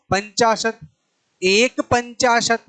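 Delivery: slow, each part set apart; slow number demo. Shown as a demonstration. Teacher slowly explaining fifty-one in Sanskrit to students. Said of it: "क्या पढ़ेंगे?".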